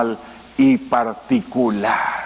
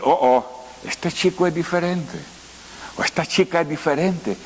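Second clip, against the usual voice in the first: lightly acted, soft and higher; mock smitten wonder; 3 semitones higher, 3 dB quieter than usual. Pastor voices someone at first sight of a sweetheart, lightly smitten. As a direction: softly murmur it as if just struck by love.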